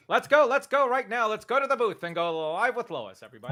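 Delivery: put-on old-timey radio news host. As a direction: hurry them live like an old-timey newsman. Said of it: "the old-timey news voice".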